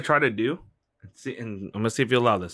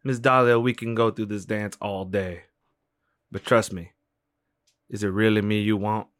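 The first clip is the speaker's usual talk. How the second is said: hypnotic voice. Acted. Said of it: "Hypnotic voice".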